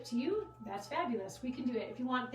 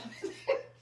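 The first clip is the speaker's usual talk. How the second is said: short breath-like giggle. Real, not acted. Host can't help laughing after apologising, short giggle. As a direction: let out a brief helpless laugh. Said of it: "I don't know why I laughed".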